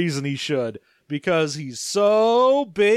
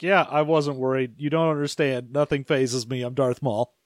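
lowered voice as Maul; 6 semitones lower than usual. Retold or imitated. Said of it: "He's like".

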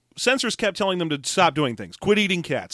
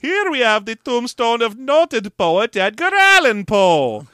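slow, louder, solemn tour-guide voice, higher; documentary narrator; 6 semitones higher, 6 dB louder, slower than usual. Retold or imitated. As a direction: narrate grandly like a museum guide. Narrator voice of Stiers.

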